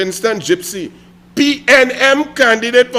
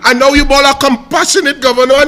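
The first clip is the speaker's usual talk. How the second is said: louder, higher angry tirade; heated rant; 4 semitones higher, 4 dB louder than usual. Real, not acted. Railing at Gypsy over carnival cuts, heated. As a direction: build into a tirade.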